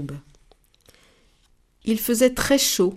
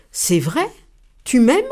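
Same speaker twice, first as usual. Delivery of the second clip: delighted; 4 semitones higher, 6 dB louder than usual. Acted. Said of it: "la tortue était ravie".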